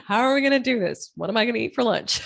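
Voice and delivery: fast inner chatter with a laugh; busy-brain chatter. Acted. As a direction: rattle off questions like a racing mind, amused. Acts out the brain's nonstop questions.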